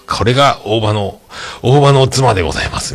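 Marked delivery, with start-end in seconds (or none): 1.6-2.9 lightly voiced, higher elegant wife; a touch of a refined lady introducing herself; a hint of a dignified first lady. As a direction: announce yourself graciously as the mayor's wife. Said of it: "みたいなやつですよね".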